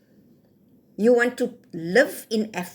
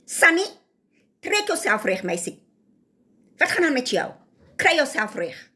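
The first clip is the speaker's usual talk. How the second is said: scolding call; 2 semitones higher than usual. Real, not acted. Scolding a named woman.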